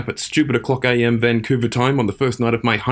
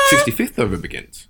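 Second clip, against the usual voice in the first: much higher, said through laughter; laughing through it; 13 semitones higher than usual. Real, not acted. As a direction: try to read it while still giggling. Still laughing.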